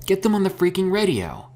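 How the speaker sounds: high, loud frantic shout. A narrator's reading. Herschel shouting at Mika to call the radio. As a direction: bark the order, desperate. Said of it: "Herschel shouted".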